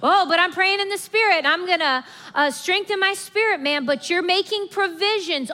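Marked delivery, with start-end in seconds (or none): 0.0-3.8 mock smug believer. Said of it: "and you're like".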